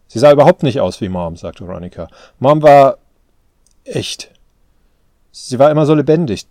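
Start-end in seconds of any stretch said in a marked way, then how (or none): 0.1-1.4 loud, insistent denial; emphatic protest. A narrator's reading. Daughter contradicting her father about Mom, emphatic. 2.4-6.5 loud, higher, emotional insistence; impassioned. A narrator's reading. Daughter defending her mother's memory, impassioned.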